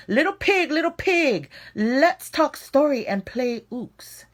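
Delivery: high, sing-song sly shark coaxing the pigs; disguised shark voice. Acted. Hungry shark coaxing the little pigs open, high and sly.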